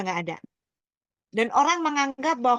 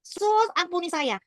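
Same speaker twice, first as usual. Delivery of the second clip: higher, slowed plea to Jesus; retold cry out; 6 semitones higher, slower than usual. Recalling a plea for mercy in the explosion, retold cry out. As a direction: imitate a desperate call, only mildly raised. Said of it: "saya teriak".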